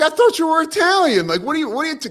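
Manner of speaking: high, loud, incredulous coach retelling; Massimino. Retold or imitated. Head coach confronting his assistant, in high mock disbelief. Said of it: "Massimino's like".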